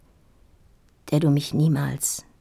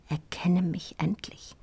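insistent whispered plea; 5 dB quieter than usual. Acted. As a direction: whisper rising on endlich. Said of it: "schrie mein Blick".

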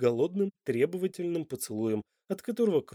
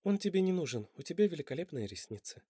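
reassuring; 4 semitones higher, 5 dB quieter than usual. Acted. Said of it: "успокоила она мужчину".

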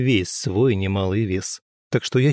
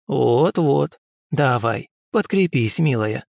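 put-on cooing old woman; 3 semitones higher, slower than usual. Old healer coos at the girl over tea. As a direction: coax her like a doting granny. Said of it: "ворковала старуха".

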